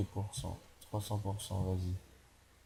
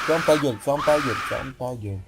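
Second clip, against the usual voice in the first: angry yell; 2 semitones higher, 5 dB louder than usual. Real, not acted. Gamer yells at game enemy.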